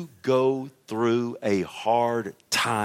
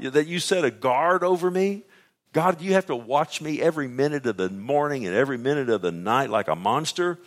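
raised, pressing mock complaint; blaming God; 4 semitones higher, 3 dB louder than usual. Preacher as Job blaming God for watching him, indignant. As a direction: push the accusation out, louder and higher at first. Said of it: "He's blaming God".

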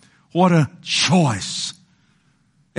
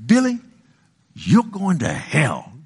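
mock scolding neighbor; slower than usual. Neighbor condemning the boy next door, slow mock scolding. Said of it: "my next door neighbors".

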